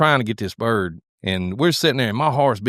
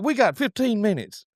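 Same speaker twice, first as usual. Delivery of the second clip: retold urgency; 10 semitones higher, 3 dB quieter than usual. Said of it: "I was mad".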